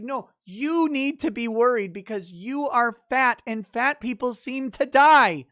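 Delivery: hammed-up scolding health expert; mock concerned doctor. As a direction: lecture fat people in a fake-caring tone. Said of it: "they were like".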